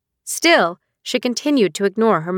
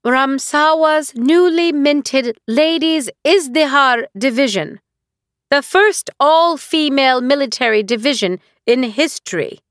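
mocking imitation of daughter; 5 semitones higher, 3 dB louder than usual. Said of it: "affected a mocking tone in a poor imitation".

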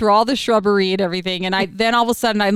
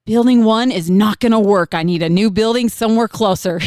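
louder, retold demand; 4 dB louder than usual. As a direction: announce it firmly to the front desk. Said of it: "literally out loud".

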